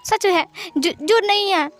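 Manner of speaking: stumble, then blurt the denial; choked denial. Acted. Wing to Wangji, denying his tears, choked and rising.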